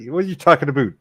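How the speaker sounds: Canadian accent with "about" said like "aboot"; casual Canadian-accented question. Real, not acted. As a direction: ask it as a Canadian would. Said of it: "I'm using my Canadian accent".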